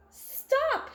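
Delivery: high shouted command. A narrator's reading. Sticky shouting at the firefighters. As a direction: shout to halt them. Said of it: "shouts Sticky".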